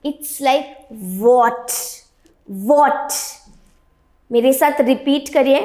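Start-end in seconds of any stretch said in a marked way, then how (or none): 0.9-3.2 "what" begun with a v sound; demonstrated pronunciation. Shown as a demonstration. Teacher modelling "what" for students to repeat, demonstrated pronunciation. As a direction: say "what" with an opening v and open mouth. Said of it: "वी sound को हमें pronounce करना है".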